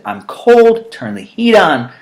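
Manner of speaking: high, loud mock wife voice; husband mimicking wife's cold complaint. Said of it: "She says".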